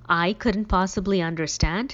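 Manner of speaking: indignant demand. Acted. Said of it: "he demanded".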